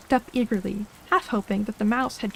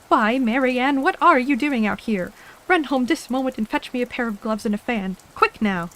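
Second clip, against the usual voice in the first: louder, angry rabbit calling out; 2 semitones higher, 4 dB louder than usual. Acted. Rabbit calling out angrily to his housemaid Mary Ann. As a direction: snap orders at the maid. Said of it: "called out to her in an angry tone".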